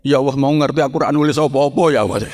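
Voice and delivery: mock tearful lament; half-acted weepy regret; retold crying husband. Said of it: "Sing lanang malah tambah nangis".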